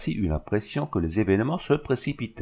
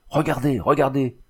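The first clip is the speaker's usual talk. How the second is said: a raised, high, shaken call; strange cry; 5 semitones higher than usual. A narrator's reading. Husband cries out at his dead wife's bedside, strange. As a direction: cry out, unsettled and awestruck. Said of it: "Il cria d'une voix étrange".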